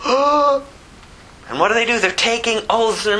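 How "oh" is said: high, breathy little oh; awed surprise. Acted. Sailors stare at the glassy sea, high awed oh. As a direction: let the wonder out.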